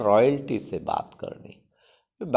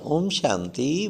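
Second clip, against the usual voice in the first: soft greeting; 4 dB quieter, slower than usual. Shown as a demonstration. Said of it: "phone करना".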